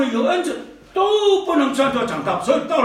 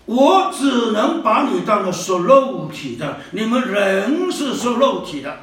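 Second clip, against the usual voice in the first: quoting Paul slowly; 4 semitones lower than usual. Retold or imitated. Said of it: "下面就说了".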